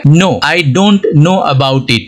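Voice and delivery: slow, careful English example sentence; slow example read. Shown as a demonstration. Teacher reading an example sentence slowly to students. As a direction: read each word out slowly and clearly. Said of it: "sentence में दोनों को use किया".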